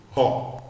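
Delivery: RO with a breathed English H at the start. Shown as a demonstration. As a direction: begin RO on an audible puff of H. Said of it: "lemos com aquele Hzinho do inglês".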